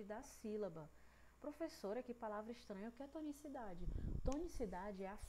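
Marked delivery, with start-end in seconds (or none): 1.4-3.9 a hint of a puzzled student; puzzled pupil. Pupil asks the teacher about a strange word, lightly puzzled.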